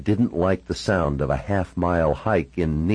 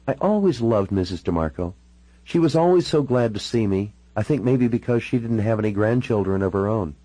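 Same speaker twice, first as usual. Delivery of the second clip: lightly voiced woman, pitched up; Natalie reminiscing fondly; 4 semitones higher than usual. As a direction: reminisce in a lightly played female voice.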